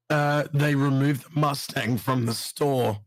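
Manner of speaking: slurred, groggy speech after anesthesia. Real, not acted. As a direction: talk thick and groggy, still numb. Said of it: "sorry, I'm talking a bit weird".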